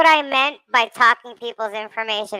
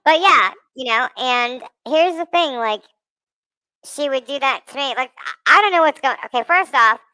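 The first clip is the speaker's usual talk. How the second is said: chipmunk voice. Real, not acted. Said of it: "let me just get out of this chipmunk voice".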